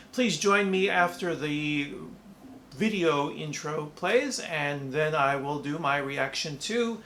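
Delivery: slow, flat robot voice. Pretend. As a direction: talk like a machine. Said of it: "I'm talking like a robot now".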